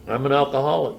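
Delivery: a firm, proud, fuller-voiced "I'm an alcoholic"; said with pride. Pressed by his sponsor, he finally says it with pride. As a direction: own it and mean every word. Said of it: "Take pride in it".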